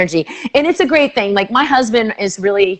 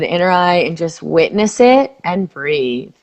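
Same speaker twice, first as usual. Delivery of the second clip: slow, low, calm guiding voice; soothing tapping script; guided tapping; 3 semitones lower, slower than usual. Acted. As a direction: lead the phrase gently for her to repeat.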